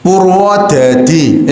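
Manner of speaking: slow heavy Javanese medok Purwodadi; Javanese medok accent. Shown as a demonstration. Teacher shows students a Javanese medok Purwodadi. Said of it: "itu Jawa".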